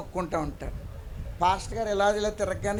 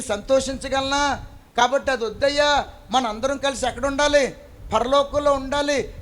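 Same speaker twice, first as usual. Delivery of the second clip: weeping plea; 3 semitones higher, 4 dB louder than usual. Shown as a demonstration. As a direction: plead with family as if in tears, building louder. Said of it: "చేతులు పట్టుకుని ఎప్పుడైనా ఏడ్చి మీరు సువార్త చెప్పారా". (ఏడుస్తూ బిగ్గరగా వేడుకోలు)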